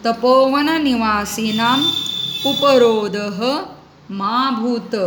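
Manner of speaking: slow, drawn-out word-by-word Sanskrit reading; sandhi-split recitation. Shown as a demonstration. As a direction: recite slowly, separating each word for students. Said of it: "संधिविग्रह कृत्वा अहम पठामि". (संधिविग्रह करून संथ पठण)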